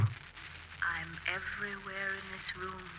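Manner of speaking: slow, soft otherworldly murmur; ghostly hush. Acted. Dead wife telling her husband she fills the room, slow and soft. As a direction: drift the words out slowly.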